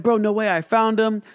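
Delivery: high excited "no way"; mock surprised exclaim; excited retelling. I'm like.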